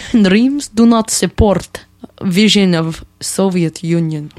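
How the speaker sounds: slow mock Russian accent. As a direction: play a stern Soviet official, Russian accent. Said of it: "I want to do a Russian accent".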